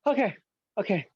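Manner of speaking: very high, fast, crying plea; whimpering beaten man. Pretend. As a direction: beg for mercy in a squeaky sob. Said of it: "Say it like Grover from Sesame Street".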